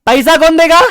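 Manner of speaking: student answering. Retold or imitated. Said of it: "ध्रुव बोलता है".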